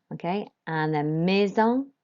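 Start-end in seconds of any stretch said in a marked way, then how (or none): 1.2-1.9 "maison" with AI as ay, S as z, nasal ending; French pronunciation. Shown as a demonstration. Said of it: "an A I is an A sound".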